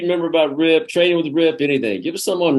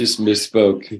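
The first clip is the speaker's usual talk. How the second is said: slow teasing repeat of misspoke; slow sarcastic echo of an excuse; mock repeat; 4 semitones lower, much slower than usual. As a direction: drag out misspoke mockingly.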